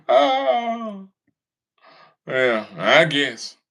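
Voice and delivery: very slow mock agreement; slow sarcastic yeah I guess; sarcastic shrug. Real, not acted. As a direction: drawl it out like you don't buy it. Sarcastic concession.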